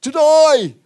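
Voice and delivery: high, very loud drawn-out cry; hammed-up heroic yell; bold mock shout. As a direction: shout it like a rousing battle cry. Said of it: "That's my accent".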